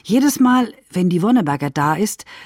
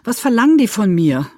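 distraught protest; 8 semitones higher than usual. Acted. Writer refuses to kill her character, distraught and rising in pitch. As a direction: pitch climbing into high, agitated protest.

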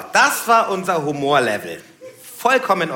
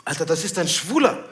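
appalled gangster customer. Retold or imitated. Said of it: "Da meint der Typ".

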